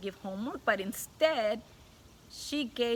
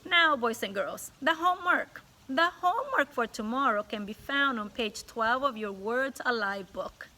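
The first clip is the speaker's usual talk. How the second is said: louder, businesslike classroom command; stern teacher; 2 semitones higher, 4 dB louder than usual. Acted. Stern teacher announcing homework to the class, louder. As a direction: snap the class back to work. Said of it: "She's very stern".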